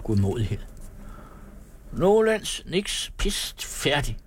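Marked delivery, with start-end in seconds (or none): 1.9-4.2 laughing. A narrator's reading. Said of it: "griner Per og slår ud med hånden".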